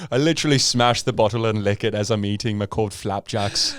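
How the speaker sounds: put-on Fargo accent. Trucker describes eating frozen syrup, Fargo accent. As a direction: play a northerner in Fargo dialect. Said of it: "we all talk like".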